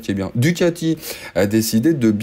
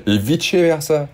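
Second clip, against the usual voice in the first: mock Italian; 5 semitones higher, slower than usual. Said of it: "je suis bilingue italien aussi".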